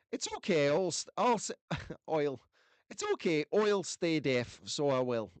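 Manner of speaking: playful Irish lilt, breaking into a laugh; Irish accent. Retold or imitated. Host imitating Irish viewer refusing hearing aid, playful Irish accent. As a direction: read it as a hammed-up Irishman. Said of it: "hear the Irish in your accent".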